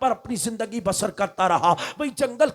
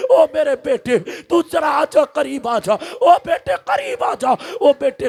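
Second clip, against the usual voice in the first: mother's pleading calls, higher and louder; calling out; 4 semitones higher, 3 dB louder than usual. Acted. Mother calls her son back from the flames, pleading loudly. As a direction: call him back to you. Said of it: "ماں پکارنے لگی ہے".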